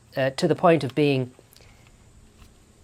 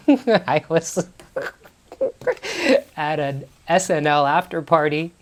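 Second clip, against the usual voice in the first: usual speaking voice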